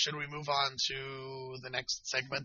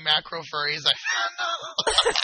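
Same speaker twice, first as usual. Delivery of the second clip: mock misreading; 6 semitones higher, 7 dB louder, slower than usual. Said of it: "No, read it right".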